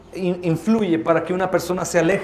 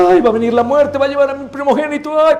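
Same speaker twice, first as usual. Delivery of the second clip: mild fear; 7 semitones higher, 5 dB louder, faster than usual. Retold or imitated. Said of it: "temblando, llorando".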